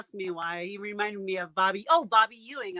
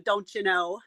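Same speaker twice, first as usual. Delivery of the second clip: Canadian accent; slower than usual. Shown as a demonstration. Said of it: "I can do the Canadian accent".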